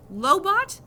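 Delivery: high, loud disbelieving question; incredulous. Acted. Boy incredulous at mom.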